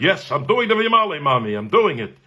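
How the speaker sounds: high-pitched eager outburst; excited. Retold or imitated. Boy telling Mommy he'll sing, excited. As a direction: act out a caffeinated boy's eagerness. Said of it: "So I'm excited".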